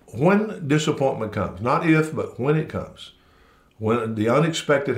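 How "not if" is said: not if, pushed up and out; stress on not if. Real, not acted. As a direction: punch not if as a correction. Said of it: "correcting if to when".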